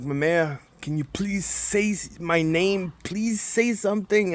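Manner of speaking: understated mock-crying appeal to grandma; retold tearful plea. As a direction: plead mildly, as if tearful. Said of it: "And I'm crying".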